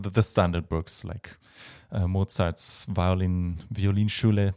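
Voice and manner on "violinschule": Violinschule said the German way; German pronunciation. Real, not acted. Violinist naming standard books at home, German pronunciation. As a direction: say Violinschule as a German speaker would. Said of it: "use your German accent".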